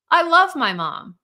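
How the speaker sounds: put-on emphatic child's protest. Child torn between parents, emphatic insistence.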